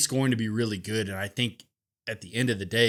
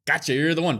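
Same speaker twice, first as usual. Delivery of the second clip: imagined fan reaction; 4 semitones higher, 6 dB louder than usual. Retold or imitated. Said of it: "You're like".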